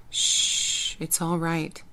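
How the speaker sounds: soothing. Acted. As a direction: hush her gently. Soothing her.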